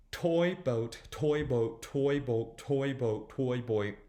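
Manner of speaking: quick run until it tangles; fast repeats. Shown as a demonstration. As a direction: keep repeating fast until the tongue slips. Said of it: "Say it a few times fast".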